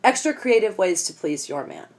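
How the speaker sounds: mock solemn quotation; quoting aloud. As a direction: read it out like a headline. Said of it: "and I quote".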